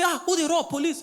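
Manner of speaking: mock eager officer asking who robs; eager surprise. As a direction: perk up, hoping it is police. PM asks eagerly.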